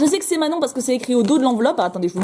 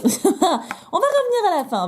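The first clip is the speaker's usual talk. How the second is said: laughing; 7 semitones higher, slower than usual. Real, not acted. Repeats the phrase laughing.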